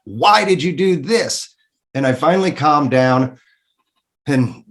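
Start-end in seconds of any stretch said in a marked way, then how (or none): 0.0-1.5 higher, exasperated mock rant at God; retold angry rant. Man venting at God over his injury, higher exasperated rant. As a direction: replay the fury, pitched up, venting at God. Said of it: "I, I yelled out to God".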